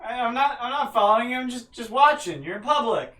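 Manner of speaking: high, flustered denial; nervous. Acted. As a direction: stammer your innocence nervously. NPC denies following.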